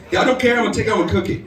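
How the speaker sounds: insistent, put-on broken-English voice. Man insisting on keeping the fish, mock broken English. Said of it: "guy that speaks broken English".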